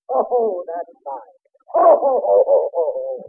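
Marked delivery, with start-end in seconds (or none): 1.8-3.1 Santa laugh. Acted. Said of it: "Hello, Santa".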